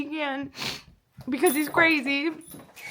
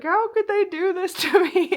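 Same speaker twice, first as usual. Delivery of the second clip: higher, louder whiny wail; a mock-sobbing lament; mock sob; 6 semitones higher, 4 dB louder than usual. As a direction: imitate yourself sobbing, hammed-up. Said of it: "you're like, sobbing".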